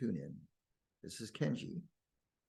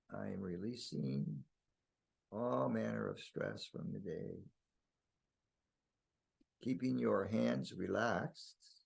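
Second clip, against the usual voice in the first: calm, spacious relaxation voice with long pauses; guided meditation. Real, not acted. Guiding listeners to release stress from the day, soothing meditation. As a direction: gently lead them into rest.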